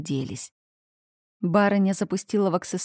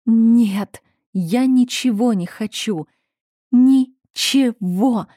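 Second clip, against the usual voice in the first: louder and higher, dragging out «Ничего» very slowly; angry outburst; 4 semitones higher, 6 dB louder, much slower than usual. A narrator's reading. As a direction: flare up in anger at the maid. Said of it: "огонь гнева". (гневно, с растянутым «Ничего»)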